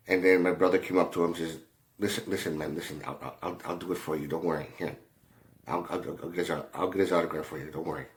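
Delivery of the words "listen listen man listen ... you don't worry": quiet, hushed calming words; reassuring softly. Retold or imitated. Brother comforting the scared coworker, soft and reassuring.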